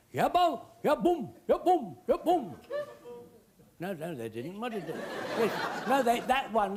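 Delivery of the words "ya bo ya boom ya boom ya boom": tribal cry. Retold or imitated. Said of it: "they started to shout their cry".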